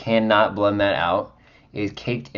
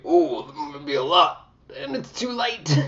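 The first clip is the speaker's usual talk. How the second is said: high surprised squeal at the amount; react, surprised, up high; surprised ooh. Real, not acted. Surprised by heavy concealer amount.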